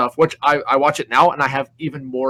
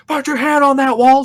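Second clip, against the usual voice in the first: louder, higher barked order; drill sergeant command; 12 semitones higher, 7 dB louder than usual. Retold or imitated. Drill sergeant orders the private to the wall, loud. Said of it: "He's like".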